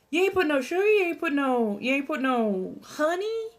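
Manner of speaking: high-pitched incredulous questioning; mock disbelief. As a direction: play up being scandalized, pitch climbing. Mock disbelief at unsweetened tea.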